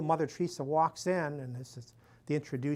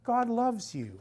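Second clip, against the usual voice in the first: gentle blessing; 8 semitones higher, 3 dB louder, slower than usual. Retold or imitated. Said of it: "And she says".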